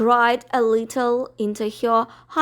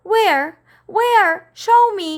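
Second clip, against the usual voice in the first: high, loud, urgent demand; eager cry; 10 semitones higher, 7 dB louder than usual. Acted. Miss Lark begs to see Andrew, high urgent cry. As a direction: snap it out, desperate to see. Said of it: "cried Miss Lark".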